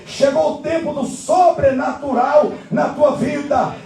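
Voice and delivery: stretched, emphatic pulpit proclamation; sermon climax with drawn-out key words; fervent preaching. Acted. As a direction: rouse the congregation with prophetic fervour. Preaches to congregation.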